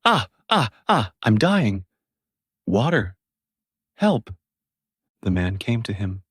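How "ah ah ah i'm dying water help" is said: a beggar boy fakes dying by the road; faked cries for help.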